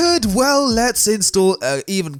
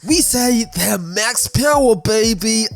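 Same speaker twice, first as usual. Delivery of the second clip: slow mock Austin Powers accent; 2 semitones higher, slower than usual. Host slipping into an Austin Powers voice for max power. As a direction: ham up an Austin Powers drawl. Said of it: "what was that accent?".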